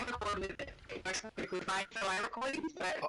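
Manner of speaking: glitchy robotic mic audio; robot voice from a bad connection. Real, not acted. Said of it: "we got the robot voice here".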